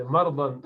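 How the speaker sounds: مردن said as "mardan", with no vowel after the r; the common wrong way, مردن as "mardan"; wrong pronunciation. Shown as a demonstration. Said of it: "لیکن یہ غلط ہے".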